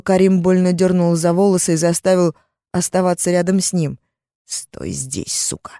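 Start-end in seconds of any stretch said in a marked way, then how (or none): 4.5-5.7 low, soft menacing hiss. Acted. Captor hissing threat into her ear. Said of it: "прошипел на ухо".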